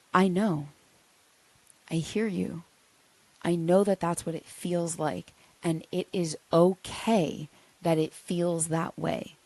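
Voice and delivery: put-on gentle, quiet soothing to a hurt inner child; calm her softly, no fixing; soft reassurance. Shown as a demonstration. Speaking softly to a wounded inner child, reassuring. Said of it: "your response to that is".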